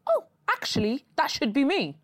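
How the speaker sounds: high, mocking fuckboy voice; mocking guy voice. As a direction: whine it like a jealous ex. Mocking a guy who regrets.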